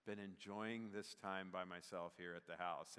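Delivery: low, soft, lightly put-on contentment; a touch of blissful calm; retold relaxed reply. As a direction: imitate someone lazily at ease. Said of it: "I'm like".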